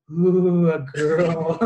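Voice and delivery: loud, drawn-out mock "ooh"; excited kid, imitated. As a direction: play a smitten young kid, hammed-up. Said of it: "As a kid".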